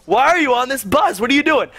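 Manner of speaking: high-pitched jokey call-out; mock shout to a friend; retold joking shout. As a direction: call out teasingly, pitch climbing. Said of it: "so I say it again".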